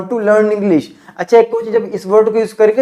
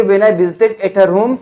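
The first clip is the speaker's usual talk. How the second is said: slow model sentence; much slower than usual. Shown as a demonstration. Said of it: "तो क्या बोलेंगे?".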